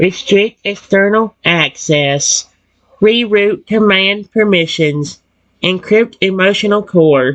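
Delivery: robotic, mechanical delivery. Narrating as the robot Reggie processes your words, Reggie's robot voice. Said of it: "he'll just speak like a robot".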